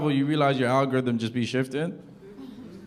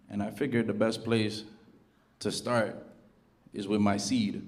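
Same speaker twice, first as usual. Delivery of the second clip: earnest father; 3 semitones lower, 6 dB quieter than usual. Retold or imitated. Estranged father messaging his son, soft and solemn. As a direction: read it like a heartfelt apology.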